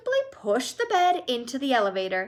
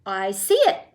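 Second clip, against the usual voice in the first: eager cry; 7 dB louder than usual. Acted. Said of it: "cried Mister Wonka".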